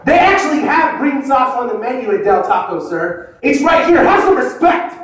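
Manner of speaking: high-pitched indignant rant at a stranger; outraged rant. Retold or imitated. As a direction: scold him like the sauce is sacred. Yelling at father, scolding.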